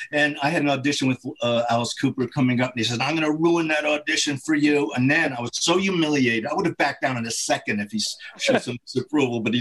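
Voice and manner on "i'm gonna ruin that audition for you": gravelly voice. Retold or imitated. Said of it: "he had this gravelly voice".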